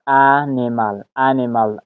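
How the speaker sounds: انیمال stressed on the opening short A; first-syllable stress. Shown as a demonstration. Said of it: "استرس هم روی می هجای اول".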